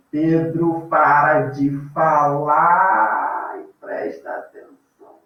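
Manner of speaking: slow, drawn-out mock scolding; mock stern teacher. Teacher pretends to scold Pedro, mock stern and slow. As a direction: play the strict teacher telling off a pupil. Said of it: "é só pra vocês se sentirem na aula".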